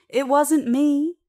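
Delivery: high, loud, drawn-out protest; mock scream. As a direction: cry it out as if freaking out inside. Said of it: "wanting to scream".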